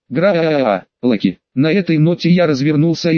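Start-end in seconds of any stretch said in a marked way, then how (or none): 0.1-1.4 crowd roar. Acted. Crowd roars the name.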